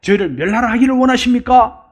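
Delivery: self-styled Elijah. Acted. Hot-headed disciple asking Jesus to allow fire from heaven, mildly grandiose. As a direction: appeal to the Lord as if a mighty prophet. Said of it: "마치 자기가 엘리야인 것처럼".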